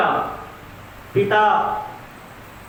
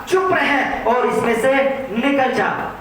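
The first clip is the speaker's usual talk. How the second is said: slow, raised, commanding rebuke; stern rebuke; 3 semitones higher, slower than usual. Acted. Jesus rebukes the unclean spirit, slow and stern. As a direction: bark the order slowly like a rebuke. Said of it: "यीशु ने उसे डांट कर कहा".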